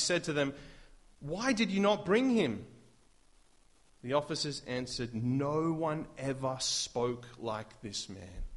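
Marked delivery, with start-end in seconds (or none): 1.2-2.6 higher, louder indignant question; mock indignant priests; demanding priests. 5.1-8.4 slow, hushed wonder; reverent, marveling quote; awed testimony. Acted. Officers' awed reply.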